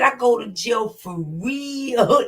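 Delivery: imitating the clip, slow, leaning on every word of "I go to jail for real"; mocking emphasis. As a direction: drag out "I go to jail for real" like the guy in the video. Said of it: "That nigga put emphasis".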